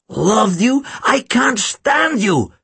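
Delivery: high, contemptuous, last words drawn out; scornful villain. A narrator's reading. Charlotte rejecting Tim at gunpoint, scornful. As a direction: throw the love back with disgust.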